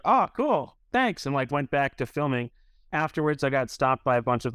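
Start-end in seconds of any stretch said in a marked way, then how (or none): 0.0-1.2 mock casual thanks. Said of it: "And I was like".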